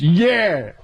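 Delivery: high, proud street voice; high and pleased with himself; Tracy impression. As Tracy after being thrown out, high and proud. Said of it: "and he goes".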